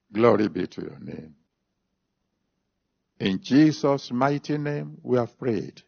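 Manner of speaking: earnest spoken prayer. Real, not acted. Preacher thanking God for those surrendering, in prayer. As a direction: pray to the Father, steady and sincere.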